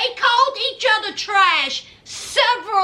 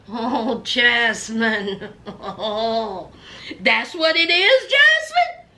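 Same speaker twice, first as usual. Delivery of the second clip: laughing disbelief; 6 semitones lower, slower than usual. Real, not acted. Host reacting to a confession.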